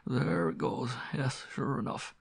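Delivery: put-on old servant talking quietly to himself; lightly voiced, reassure yourself; self-reassuring old butler. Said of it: "reassuring himself with the sound of his own voice".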